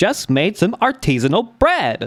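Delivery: high, sing-song, synthetic default text-to-speech narrator voice. Imitating the TikTok default voice lady: imitating TikTok default voice. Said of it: "That's what it sounds like".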